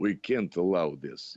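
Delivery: slightly heavier Russian accent. Showing how the role sounds next to the own voice: Colossus voice, more Russian accent. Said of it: "we try to make it a little bit more Russian".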